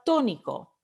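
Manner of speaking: "tónico" with TÓ stressed, falling away after; stress on the first O. Shown as a demonstration. Teacher presenting the practice word, "tónico" stressed on TÓ. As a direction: lean on the first syllable of "tónico". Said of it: "¿Cuál es la vocal tónica?".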